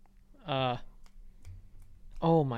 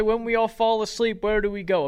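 whiny singer voice; 5 semitones higher than usual. Retold or imitated. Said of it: "Imagine his whiny voice singing that line".

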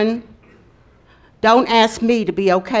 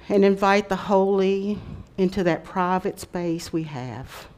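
guided meditation. Acted. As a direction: gently guide them into stillness. Leads a rock meditation.

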